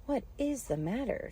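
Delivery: high, concerned question; alarmed question. A narrator's reading. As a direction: ask in bewildered alarm. Alice alarmed by the screaming.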